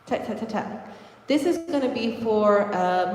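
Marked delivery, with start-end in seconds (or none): 0.1-0.9 Tap, tap, tap, tap breathed without voice; Tap, tap, tap, tap as soft unvoiced clicks; whispered taps. Shown as a demonstration. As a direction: barely sound each tap. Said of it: "Or if I was doing, like, a Omi".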